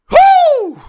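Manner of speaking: very high, loud, long whoop; celebratory whoop. Real, not acted. Streamer heading into overtime, high excited whoop.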